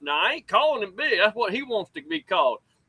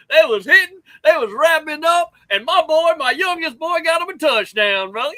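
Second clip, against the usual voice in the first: excited; 2 semitones higher, 5 dB louder than usual. Real, not acted. Hyped dad bragging on youth football.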